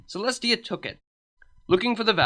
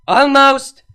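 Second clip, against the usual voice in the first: strained; 8 semitones higher, 13 dB louder than usual. A narrator's reading. Celestia straining while blowing.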